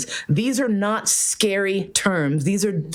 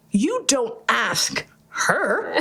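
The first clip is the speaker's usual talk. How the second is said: laughing disbelief; 4 semitones higher, much slower than usual. Retold or imitated. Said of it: "And I'm like".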